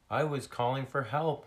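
high, loud small seal voice; little lost seal. Acted. Lost seal explaining her cries, high voice. Rescued seal's high character voice.

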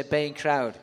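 "Baying crowd." with a mock growl; a light mock growl on "Baying crowd.". Shown as a demonstration. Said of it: "growl when you say".

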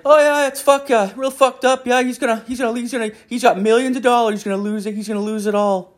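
put-on very high giggly old man voice; a high, eager dad, half laughing; imitating dad. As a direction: son imitating his father, very high. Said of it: "He's like".

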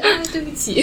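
giggling mock apology; laughing apology. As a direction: say sorry while cracking up. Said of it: "她就".

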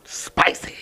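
breathy whispered word; whispering. Real, not acted. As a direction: whisper it teasingly. Teasing reaction to granny story.

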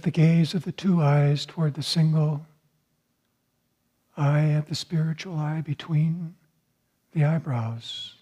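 soothing instructions to lift the gaze; guided meditation. Acted. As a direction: guide the listeners gently inward.

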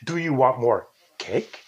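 slow question with CAKE lifted at the end; question inflection. Shown as a demonstration. Host showing a question mark at the end, rising CAKE. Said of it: "put the question mark at the end".

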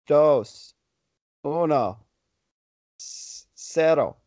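slow dramatic Spanish countdown. Pretend. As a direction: count down slowly for suspense. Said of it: "Give me a countdown from five".

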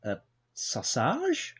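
lightly voiced stuffy posh gent; a hint of a posh old gentleman; posh man. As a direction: play a prim upper-class record boss. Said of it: "Giles is a posh man".

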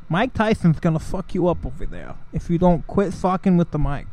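lightly voiced boxer impersonation; a hint of a famous boxer's voice; Mike Tyson. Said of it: "I'm done with the Mike Tyson".

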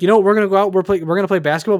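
hammering out a coach's angry words; retold angry outburst. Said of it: "he got mad".

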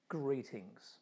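soft, low, offhand greeting; quietly casual hello; understated. Retold or imitated. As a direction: toss it off like nothing happened. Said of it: "Jesus seems just a little understated here".

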